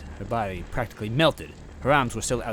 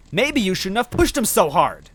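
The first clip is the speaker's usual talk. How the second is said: empathetic; 13 semitones higher, 11 dB louder than usual. A narrator's reading. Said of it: "awfully empathetic".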